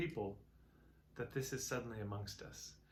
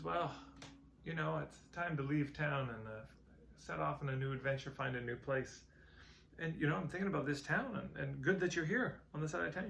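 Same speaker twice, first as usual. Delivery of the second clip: hopeful eager traveler; 4 semitones higher, 3 dB louder than usual. Retold or imitated. Hopeful second traveler asks.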